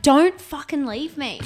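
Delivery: slow, drawn-out mock pleading; hammed-up clingy plea; retold plea. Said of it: "And I'm like".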